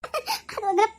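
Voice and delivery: drawn out, laughing mockery; slow teasing laugh. Girl mocking the shy man, slowly laughing. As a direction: savour the joke at his expense. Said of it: "நக்கல் பண்ணி சிரிக்காத".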